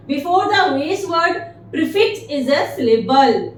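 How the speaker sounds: very slow, word by word; slow dictation. Shown as a demonstration. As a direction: read it out for students to copy. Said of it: "dictating a definition slowly".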